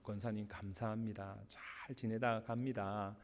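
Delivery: soft, sincere farewell thanks. Retold or imitated. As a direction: thank her gently from the heart. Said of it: "제가 진심으로".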